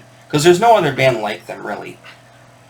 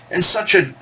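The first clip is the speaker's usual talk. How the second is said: preacher voice; 6 semitones higher than usual. Retold or imitated. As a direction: paint the storm like a sermon. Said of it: "he talked like a preacher almost".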